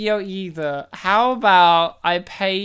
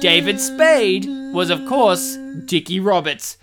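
tribute announcer; 4 dB louder than usual. Acted. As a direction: announce names like a tribute reel. In memoriam style tribute reading.

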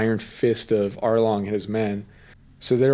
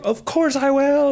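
yelling it out. Retold or imitated. Retelling Luffy answering Nami's plea, yelled out high. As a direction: belt out the promise like a fearless captain. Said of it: "like, yells it out".

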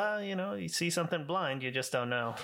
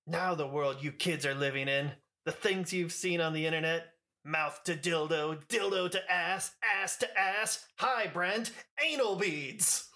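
mildly hammed-up confrontational rant, rising higher through the list; Nicolas Cage confronting; 4 semitones higher than usual. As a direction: imitate a confronting dad, slowing and climbing in pitch. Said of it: "confronting him in the kitchen".

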